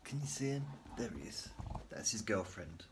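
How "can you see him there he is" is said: whispering. Real, not acted. Reacting to pet, whispered.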